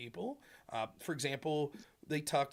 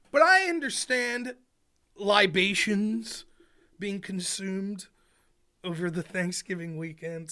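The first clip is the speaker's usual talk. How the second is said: slow, higher, louder knowing emphasis on libations; knowing drawl; 5 semitones higher, 6 dB louder, slower than usual. Real, not acted. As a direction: stretch libations out with a wink. Wry hint at holiday drinking.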